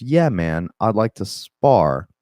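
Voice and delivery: lightly imitated Scouse accent; a touch of Liverpool, stretching "spar". Fighter Darren Till agrees to spar, light Scouse accent. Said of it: "he's got the heavy Liverpool accent".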